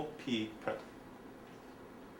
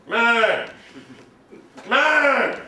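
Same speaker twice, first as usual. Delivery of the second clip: higher, louder exclaim; excited; 5 semitones higher, 4 dB louder than usual. Shown as a demonstration.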